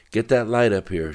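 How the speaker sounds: controlled narrated shout. A narrator's reading. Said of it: "shouted one of the soldiers".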